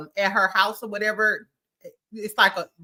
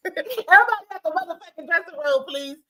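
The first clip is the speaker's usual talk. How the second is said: mock shout; 7 semitones higher than usual. Doctor Jackie ordering everyone out, mock shout. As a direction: clear the room, sugar-coat the ending. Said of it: "this is what Doctor Jackie was giving".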